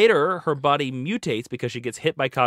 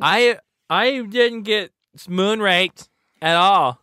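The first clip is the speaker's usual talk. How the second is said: high, slow put-on girl voice; mock heroine voice; 8 semitones higher, 5 dB louder, much slower than usual. Posing as the comic heroine, mock girl voice. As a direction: stretch it out, pitched way up.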